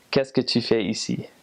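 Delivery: careful, proper Parisian-style French; proper France French. Shown as a demonstration. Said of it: "Very, very proper".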